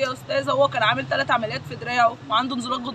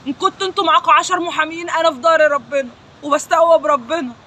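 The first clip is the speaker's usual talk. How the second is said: louder, rising anger at the killers; angry defiance; 4 dB louder than usual. Real, not acted. Sister defying her brother's killers, loud and angry. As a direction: hurl it at them, furious and defiant.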